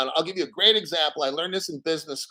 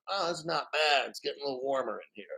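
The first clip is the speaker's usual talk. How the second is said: quiet, quick little frog voice; 3 semitones lower, 9 dB quieter than usual. Retold or imitated. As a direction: mumble it like a comfy frog. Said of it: "and the frog's kinda".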